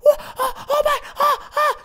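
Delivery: very high panicked shriek; shrieking girlfriend. Acted. Girlfriend panicking as the driver is knocked out, high shriek. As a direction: squeal in shock.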